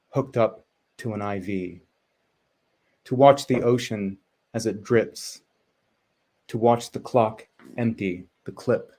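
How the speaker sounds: measured poem with long pauses; poetry reading. Acted. Poet reads an L A poem to the online audience, measured poetry reading. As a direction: read in short, falling phrases, pausing after each.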